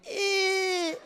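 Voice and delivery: imitated squeak of a man being crushed; high squeezed squeal. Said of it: "he'd make the same sound".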